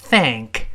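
slow "thank", tongue-out "th" running into "an"; th blended onward. Shown as a demonstration. Teacher models joining sounds, "thank" with clear "th". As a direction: blend "th" into the rest of "thank", slowly. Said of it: "再跟n连读".

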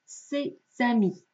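C'EST AMI with voiced Z between; liaison with Z. Shown as a demonstration. Teacher applies the rule, voiced Z in C'EST AMI. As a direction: link it as "sé-zami", never hissing the S. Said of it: "它的发音会变成浊化的Z".

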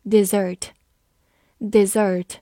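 "Dessert" said like the verb, di-ZERT; stress on second syllable. Shown as a demonstration. Teacher comparing similar words, "Dessert" stressed on ZERT. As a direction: put the weight on the end of "Dessert". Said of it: "跟它的动词一样".

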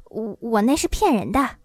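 understated stammering confession; a touch of sheepishness; meekly humble. Acted. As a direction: own up timidly, tripping on the first word. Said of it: "低声下气地说".

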